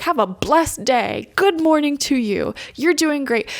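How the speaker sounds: a runner cheering on a stranger, enthusiastic; enthusiastic greeting. Retold or imitated. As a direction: greet a passing runner with gusto. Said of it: "so enthusiastic".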